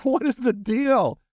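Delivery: high-pitched imitation of screaming demons; a comic shriek, not full volume; mock screaming. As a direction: exaggerate a demon's outraged cry. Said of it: "all these demons start screaming".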